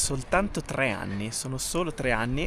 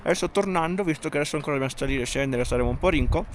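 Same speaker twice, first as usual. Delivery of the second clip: mouth full; faster than usual. Real, not acted. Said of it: "Scusate la bocca piena".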